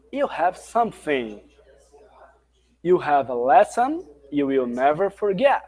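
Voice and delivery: slow, deliberate line reading; slow teaching read. Shown as a demonstration. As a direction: read it slowly so students can follow. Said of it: "colocar emoção, colocar entonação".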